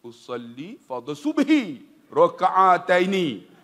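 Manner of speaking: slow recitation of "raka'ataini"; prayer intention. Shown as a demonstration. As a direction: recite the niat slowly. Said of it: "dua rial". (lafaz niat perlahan)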